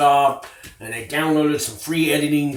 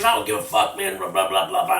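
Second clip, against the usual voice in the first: higher-pitched mock brush-off; retold dismissive retort; 5 semitones higher than usual. Young inmate brushing off the new guy, dismissive. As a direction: act out an impatient brush-off, rattling off the filler.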